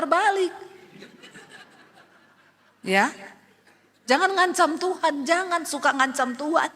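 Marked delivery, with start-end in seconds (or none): none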